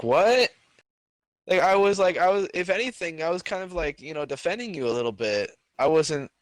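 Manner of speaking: retold high-pitched, incredulous protest; indignant disbelief. Student protesting to the teacher who threw him out, indignant. Acted protest at being sent out.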